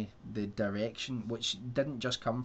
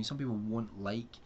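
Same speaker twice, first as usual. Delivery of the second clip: slightly wheezy, breath catching. Real, not acted. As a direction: speak through a wheezy chest. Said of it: "Sorry, I'm wheezing here now".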